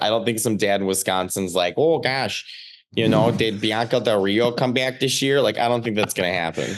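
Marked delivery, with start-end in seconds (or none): 1.8-5.4 imitating a dad with a Midwestern accent; Wisconsin dad accent. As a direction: put on a Chicago-style Midwestern dad accent. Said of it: "that's a good accent".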